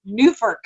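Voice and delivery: nuforc as NEW-furk, second syllable reduced; unsure pronunciation. Shown as a demonstration. Co-host sounding out an acronym, nuforc as NEW-furk. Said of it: "I don't know how to say that".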